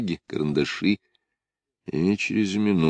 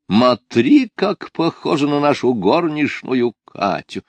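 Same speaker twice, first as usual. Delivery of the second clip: higher, louder cry of surprise; exclaiming; 8 semitones higher, 4 dB louder than usual. Retold or imitated. Ardalion mimics Lida crying out at the cinema. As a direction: imitate her cinema exclamation. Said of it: "Вот Лида вскрикивает в кинематографе".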